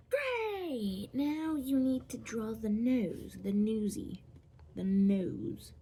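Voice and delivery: high, loud mock-enthusiastic instruction; sing-song burst starting high and stepping down; hammed-up cheer. Vlogger telling viewers to draw the nose, hammed-up excitement.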